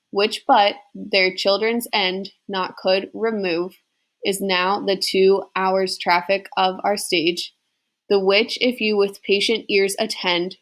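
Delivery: slow, measured sing-song verse reading; slow iambic poetry reading; poem recitation. Acted. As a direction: read it out beat by beat like a classroom recital. Finishes reading the prologue.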